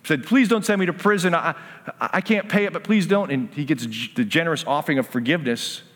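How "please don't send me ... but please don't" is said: higher-pitched retold pleading; begging. Servant begs master to spare him prison, pleading. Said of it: "this guy who just begged".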